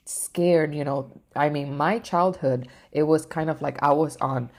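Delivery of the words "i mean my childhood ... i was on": normal talking voice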